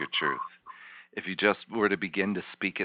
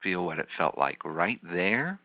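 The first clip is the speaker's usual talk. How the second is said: guided visualization. Acted. Therapist guides client back in time.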